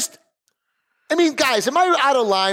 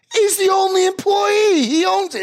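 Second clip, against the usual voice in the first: worked up; 13 semitones higher than usual. Real, not acted. Venting to cohost about taco shop owner, worked up. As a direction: get heated about the owner. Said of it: "Dude, calm down".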